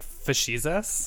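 Facetious? drawled slowly, a lightly voiced sarcastic Jesus; Facetious? as a lightly put-on smug Jesus, slow. Host mock-voices Jesus answering a prayer, slow and sarcastic. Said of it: "Jesus is so facetious that he's like".

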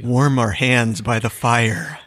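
slow, cozy campfire listener; cozy fireside voice. Pretend. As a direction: settle in by the fire, slowly. Joins the mock fireside story.

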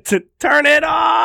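loud laughing yell; shouting. Acted. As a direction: shout while cracking up. Yelling over the jingle.

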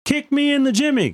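Beavis and Butthead quote. Retold or imitated. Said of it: "did you watch Beavis and Butthead?".

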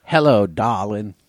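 put-on slow, breathy old Hollywood drawl; a hint of Katharine Hepburn; Katharine Hepburn impression. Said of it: "It's my Katharine Hepburn".

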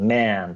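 man said as a drawn-out "メン", leaning toward E; E-like vowel demo. Shown as a demonstration. Giving man as an example, E-like vowel demo. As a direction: stretch "メン" with an E-coloured vowel. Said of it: "もうちょっとEっぽい発音".

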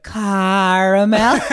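slow drawn-out sultry voice; slow sultry drawl. Retold or imitated. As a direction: stretch it out, teasing. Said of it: "the tomato's like".

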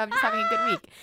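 very high, loud retold protest; squeaky defensive comeback; mock defensive. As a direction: imitate someone protesting innocence, voice shot up. Retells partner's defensive reply.

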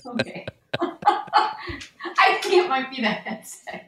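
echoey, tunnel-like sound; like talking from a tiled bathroom; echoing bathroom. Real, not acted. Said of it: "This is a disaster".

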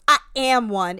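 loud, punched mock comeback; trash-TV defiance. Young woman snapping back at host, imitated defiance. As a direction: imitate a reality-show kid insisting she's grown. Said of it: "in a very, like, Maury".

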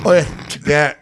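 high, loud mock-Aussie call; Australian accent. Echoing a friend's call, hammed-up Australian accent. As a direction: yell it in a broad Aussie twang. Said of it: "I don't do Australian".

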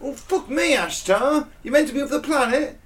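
mock exasperated boss. Mocking Ashtar's team arriving late.

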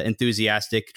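normal talking voice

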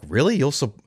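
hardly believing what he hears; stunned disbelief. Retold or imitated. To his wife offering to support him, surprised and high. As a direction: pitch jumps up, half-asking in shock.

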